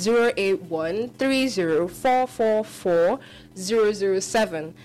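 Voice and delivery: each digit spaced out slowly; careful number dictation for callers; slow, clear dictation. Shown as a demonstration. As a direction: read the number slowly for listeners. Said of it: "In case you didn't hear".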